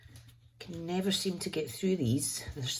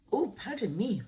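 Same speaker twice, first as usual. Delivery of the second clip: burp apology; 8 semitones higher than usual. Real, not acted. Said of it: "a little bit of air came up".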